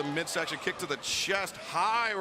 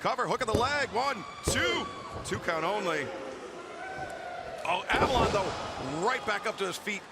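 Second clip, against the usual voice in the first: wrestling commentator; 3 semitones higher than usual. Real, not acted. Live wrestling play-by-play.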